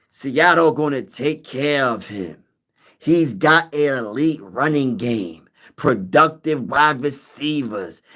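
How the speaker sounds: slow, drawn-out mock commenter voice; lightly voiced viewer reading his comment; imitating Von L. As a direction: read the comment slowly in a lightly put-on voice. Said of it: "I'ma try to say it in his voice".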